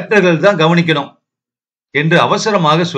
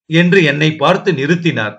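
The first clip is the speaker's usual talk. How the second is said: plain reading voice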